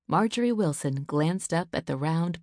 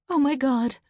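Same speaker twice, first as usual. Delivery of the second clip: high, louder cry of alarm; panic; 8 semitones higher, 5 dB louder than usual. Acted. Mother learning her daughter is missing, high cry of alarm. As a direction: gasp it out in sudden dread.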